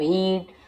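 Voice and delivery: हीट with a long ee; drawn-out long ई. Shown as a demonstration. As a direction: stretch the vowel in हीट. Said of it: "थोड़ा लंबा खींच रहा हूँ". (हीट को लंबा खींचकर)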